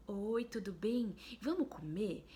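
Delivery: put-on mother asking her seated baby to eat, slow and friendly. Shown as a demonstration. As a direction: speak slowly and kindly, no cooing. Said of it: "você já usa uma outra entonação".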